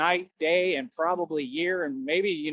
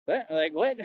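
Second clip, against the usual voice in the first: 1 taunting bouncer; 4 semitones higher than usual. Retold or imitated. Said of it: "I was talking".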